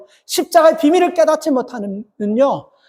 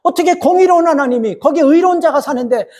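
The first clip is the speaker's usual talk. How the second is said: raised, pleading protest that rises higher; a preacher acting out Abraham's indignant protest; arguing with God; 4 semitones higher than usual. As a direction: challenge God, demanding an answer. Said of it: "막 이렇게 따지는".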